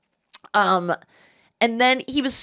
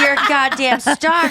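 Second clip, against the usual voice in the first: laughing mock praise; 5 semitones higher, 5 dB louder than usual. Mom's imagined praise, laughing.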